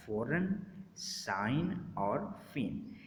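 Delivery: "फ़ौरन, साइन, फेन" ending on a plain N, G left out; silent G. Shown as a demonstration. Teacher repeating examples after explaining the rule, silent G. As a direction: say "फ़ौरन, साइन, फेन" without any G sound. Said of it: "जी silent हो जाएगा".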